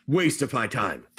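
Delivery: low, slow grumble after a sigh; unhappy dismissal. Acted. Ghoul priest walks away from the group, displeased. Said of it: "not even happy with you".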